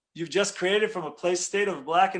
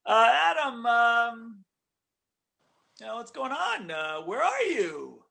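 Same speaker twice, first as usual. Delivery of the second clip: higher, careful, indirect calling out to Adam; God tiptoeing around the question to a hiding Adam; gently hinting God; 7 semitones higher, slower than usual. Retold or imitated. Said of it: "with a little hint, though, not so direct".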